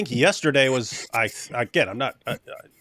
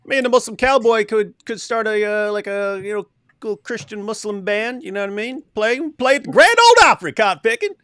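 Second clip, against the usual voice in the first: put-on Southern accent; 7 semitones higher, 3 dB louder than usual. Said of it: "busting into Southern accents".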